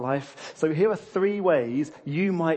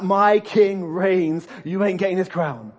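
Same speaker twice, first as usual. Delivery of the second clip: booming, very slow royal declaration; loud, defiant proclamation; emphatic God; 3 semitones higher, 8 dB louder, slower than usual. Acted. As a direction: thunder it out as God, leaning on each word. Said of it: "It's that emphatic I".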